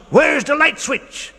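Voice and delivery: high slow puzzled mouse; puzzled squeak. Acted. Mouse in the dark pocket.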